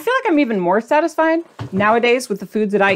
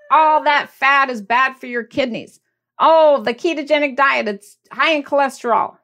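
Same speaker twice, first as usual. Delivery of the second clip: lightly voiced preachy critic; imitating critics; 3 semitones higher than usual. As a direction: mimic a know-it-all critic. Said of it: "They might say".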